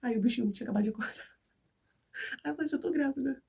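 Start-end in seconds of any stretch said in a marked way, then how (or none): 2.8-3.4 higher, tearful voice, lightly acted; retold tearful announcement. Wife tells husband she is pregnant, retold tearfully. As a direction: imitate breaking happy news through tears. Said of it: "Por que você tá chorando".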